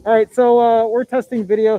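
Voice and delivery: talking through a face mask; muffled through mask. Real, not acted. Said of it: "so my voice is all muffled".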